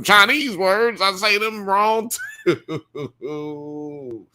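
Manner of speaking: high pitch, tipping into a laugh; breaking into laughter. Real, not acted. Comic confessing bad language skills, breaking into real laughter. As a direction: crack up on the last words. Cracks up at own joke.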